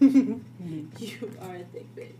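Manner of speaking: loud and slow, every word spaced; emphatic, slow. Acted. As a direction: drag it out with a loud push. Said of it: "I promise you, I don't care".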